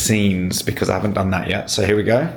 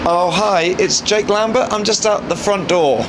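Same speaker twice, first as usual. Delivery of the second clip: polite phone voice; 8 semitones higher than usual. Real, not acted. Phone call at the door.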